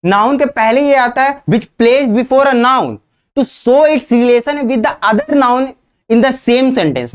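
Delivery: very slow, every word spaced; slow dictation. Shown as a demonstration. Teacher dictating the definition for students to note. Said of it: "मैं definition बोल रहा हूं".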